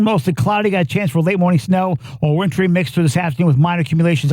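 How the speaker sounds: brisk radio weather read; news weather read. Acted. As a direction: rattle off the forecast fast.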